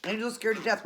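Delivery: mildly indignant retold telling-off; mad. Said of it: "She was so mad".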